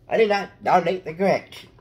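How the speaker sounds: loud, high laughing Grinch denial. Pretend. Kid drawing, yelling a Grinch line through laughs.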